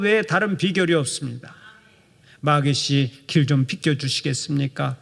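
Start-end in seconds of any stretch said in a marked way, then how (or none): 2.4-5.0 mock-courteous, lower and meek; the wrong way, politely asking the devil to move; polite request. Shown as a demonstration. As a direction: ask the devil nicely, like a gentleman. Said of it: "점잖하게 말하면 안 돼요".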